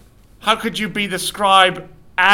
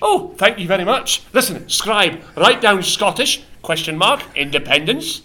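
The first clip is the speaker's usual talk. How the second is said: playful Scottish dictation; Scottish accent. Acted. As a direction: lean into the Scottish accent for the scribe. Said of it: "Now you're Scottish".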